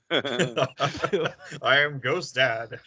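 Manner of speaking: very slow, drawn-out spooky voice; hammed-up ghost voice. Mock ghost introduction.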